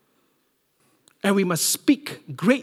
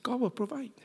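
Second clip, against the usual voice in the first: whispered faith; 7 semitones higher, 7 dB quieter than usual. Retold or imitated. Father's quiet faith statement.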